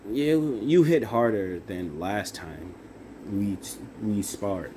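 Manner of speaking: stumbling, restarting on "you" and "we"; botched first take with false starts; fumbled line. Shown as a demonstration. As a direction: trip over the words and restart mid-line. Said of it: "kinda fucked that up".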